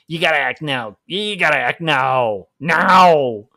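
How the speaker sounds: hard-sell pitch building to a loud NOW; pushy salesman. Retold or imitated. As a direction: push the sale harder and harder until you shout. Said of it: "a hard sale sales guy".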